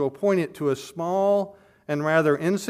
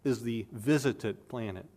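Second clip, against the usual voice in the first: solemn; 3 semitones lower, 6 dB quieter than usual. A narrator's reading. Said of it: "replied the senior solemnly".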